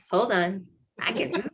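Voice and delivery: mock wonder at being healed; amazed. After a bath, realizing her back works again, amazed.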